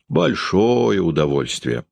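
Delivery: slow, sneering irony; scornful grimace. Acted. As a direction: say it with a disdainful smirk. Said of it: "с презрительной ужимкою".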